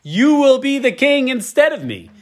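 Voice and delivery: lightly voiced Saul, slow; Saul conceding. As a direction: let the king admit defeat. Voicing Saul's realization.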